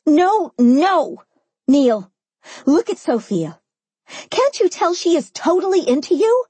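high, exasperated rant; yelling. A narrator's reading. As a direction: yell at them in disbelief. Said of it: "I yelled once more".

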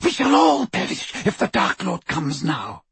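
high, frantic shrieked warning. A narrator's reading. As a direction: shriek in panic, pitch way up. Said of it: "shrieked Bellatrix".

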